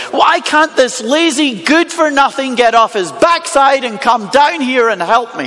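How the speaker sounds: lightly acted haughty grumble; unapologetic rich man. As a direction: complain with a touch of entitled scorn. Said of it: "He doesn't even pretend to be sorry".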